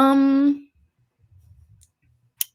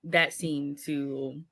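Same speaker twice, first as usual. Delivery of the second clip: mock grand; slower than usual. Mock award pitch.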